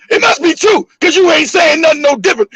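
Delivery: high, mock holler. Mom accuses her son as he hesitates, hollering. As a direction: imitate an accusing mother hollering. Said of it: "She started hollering".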